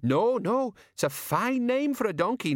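high-pitched hasty backtracking; flustered placating. A narrator's reading. Colon hastily reassuring Betty about the name, flustered. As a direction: back down fast, voice shooting up.

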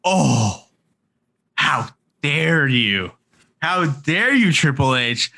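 a hammed-up offended cry; hamming up wounded pride at the boss; mock outrage. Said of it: "he's like".

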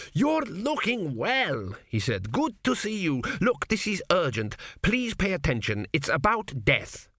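put-on high, slow ghostly old king; an anxious spirit hurrying to be heard; dead king's voice. A narrator's reading. Dead king urges his son, high and anxious.

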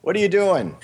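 pushy New Jersey scolding, done badly on purpose; a bad New Jersey accent telling a friend to fix his site. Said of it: "that was a pretty bad New Jersey accent".

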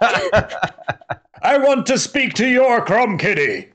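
high, slow, entitled customer; slow Karen voice. Pretend. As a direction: drawl it like a demanding Karen. Mock Karen customer demand.

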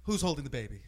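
imitated rant. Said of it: "He's like".

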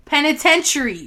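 Penitentiary as "peni-TEN-shuh-ree", falling; looked-up pronunciation. Shown as a demonstration. Co-host reading out the looked-up word, correct pronunciation. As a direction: model Penitentiary with stress on TEN. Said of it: "I'm looking up the pronunciation".

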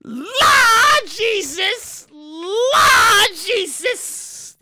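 high, very drawn-out wailing plea; hammed-up panic. Teller fearing a robbery, hammed-up cry to heaven. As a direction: stretch "Lord" into a mock-terrified wail.

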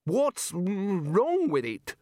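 high, very drawn-out challenge; affronted. Acted. The Arch-Chancellor defends his university, affronted. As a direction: stretch it out slowly, daring an answer.

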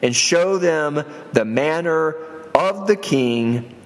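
slow, deliberate Bible reading; solemn pulpit reading, slow; scripture reading. A narrator's reading. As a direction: read the verse aloud, measured and drawn out. Reads scripture aloud.

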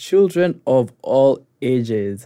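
ringmaster-style welcome; showman greeting. Acted. Host's showy opening greeting.

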